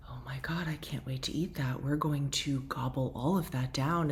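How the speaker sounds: a hushed, greedy little goblin voice, half whispered; food goblin voice. Retold or imitated. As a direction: whisper it like a gleeful craving goblin. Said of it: "that manic food goblin voice started to come in".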